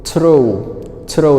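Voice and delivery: ordinary delivery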